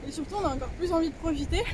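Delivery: breathless while exercising; panting between words; out of breath. Real, not acted. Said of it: "Je suis essoufflée". (essoufflée en faisant du sport)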